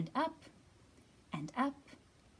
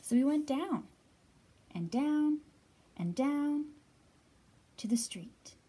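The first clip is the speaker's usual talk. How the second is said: louder, lively read; excited narration; 2 semitones higher, 8 dB louder than usual. A narrator's reading. Librarian reading the rooftop party to children, louder. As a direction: build the excitement.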